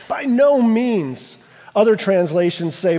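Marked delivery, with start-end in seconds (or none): 0.1-1.4 outraged. Shown as a demonstration. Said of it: "You can hear the sense of outrage".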